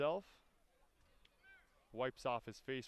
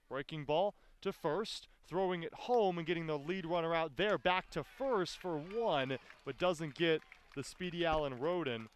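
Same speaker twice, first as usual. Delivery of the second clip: lively, slightly louder baseball call; excited play call; 4 semitones higher, 4 dB louder than usual. Real, not acted. Announcer calling a throw home and back to first, excited. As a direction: follow the throw with rising urgency.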